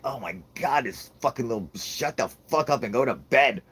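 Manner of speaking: exasperated outburst. Pretend. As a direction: act out fed-up aliens losing patience. Aliens fed up with her.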